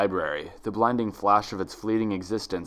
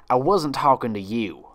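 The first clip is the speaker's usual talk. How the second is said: snapped; 2 semitones higher, 4 dB louder than usual. Acted. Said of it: "she snapped at Twilight".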